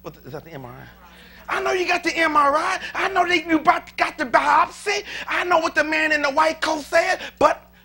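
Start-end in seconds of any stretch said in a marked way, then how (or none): 2.9-7.7 first take. Shown as a demonstration. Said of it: "we're gonna do it again".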